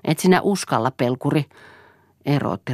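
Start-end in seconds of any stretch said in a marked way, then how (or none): 0.0-1.5 taunting. Acted. Siiri taunts him.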